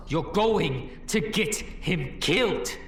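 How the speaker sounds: lightly voiced stern figure. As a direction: spell out the danger slowly. Second figure warns again.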